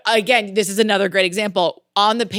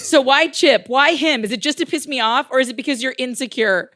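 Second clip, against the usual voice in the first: higher, pressing questions; heated confrontation; 5 semitones higher, 4 dB louder than usual. Acted. Friend confronting her rival in a script read, heated confrontation. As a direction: demand answers, pitch raised.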